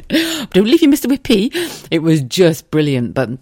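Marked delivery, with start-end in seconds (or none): 0.1-1.5 high mock pleading; laughing plea. Mike about to run off with ice cream, high laughing.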